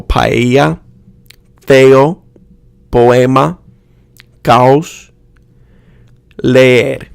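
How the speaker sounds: feo, poema, caos with each vowel sounded separately; two-syllable vowels. Shown as a demonstration. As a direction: keep both vowels distinct in caos and leer. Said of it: "pronounced as two syllables".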